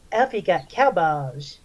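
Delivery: lightly voiced creepy drawl, slow; a hint of a weird leering guy, slowed down. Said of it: "this is the voice he used".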